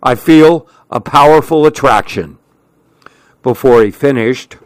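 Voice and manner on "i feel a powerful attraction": calling out. Acted. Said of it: "he called out".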